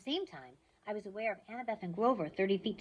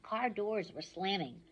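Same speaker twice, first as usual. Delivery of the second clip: plain reading voice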